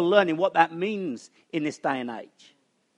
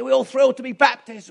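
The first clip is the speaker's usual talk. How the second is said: Southern Baptist preacher; 8 semitones higher, 6 dB louder than usual. Retold or imitated. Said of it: "they speak quite funny with Southern Baptists".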